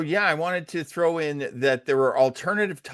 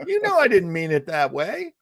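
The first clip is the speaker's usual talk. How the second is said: mock pleading husband; 8 semitones higher than usual. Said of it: "What I meant was".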